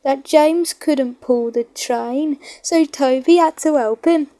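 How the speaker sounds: put-on a boy amazed on the platform; excited little boy. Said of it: "he went on".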